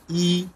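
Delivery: ই as a long, high "ee"; letter I as "ee". Shown as a demonstration. Teacher showing students the letter I, long high "ee". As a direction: hold ই as a clear "ee". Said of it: "আয়ের উচ্চারণ হলো".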